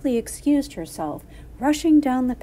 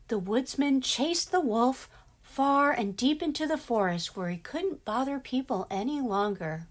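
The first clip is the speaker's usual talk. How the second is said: put-on lively children's storyteller; story narration; 3 semitones higher than usual. A narrator's reading. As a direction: read it to young listeners as a story.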